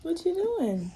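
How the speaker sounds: asking gently as the tears come; crying. Real, not acted. Talking to Rennie while upset.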